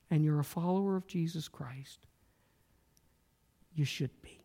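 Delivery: hushed, intimate sermon aside; preacher whispering to the congregation; whispered. Acted. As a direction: drop to a whisper for weight.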